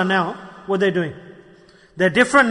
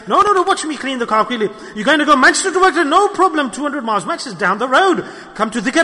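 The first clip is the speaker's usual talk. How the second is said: fast, laughing mock boast, higher and louder; 4 semitones higher, 3 dB louder, faster than usual. Preacher mocking a worker who'd drive anywhere for money. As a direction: brush off the long drive like it's nothing.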